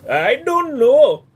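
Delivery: loud, high, slow South Asian accent; put-on South Asian accent. Shown as a demonstration. Trying out requested accents.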